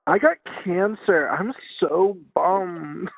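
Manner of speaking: slow, dragged-out mock dramatic lament; mock overdone drawl. Friend mocks overdone talk at the doctor, slow dramatic drawl. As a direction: stretch it out like a dramatic sufferer. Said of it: "do you think they talk regular then".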